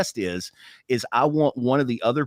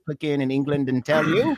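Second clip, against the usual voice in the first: mock English accent. Shown as a demonstration. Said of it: "But this is me".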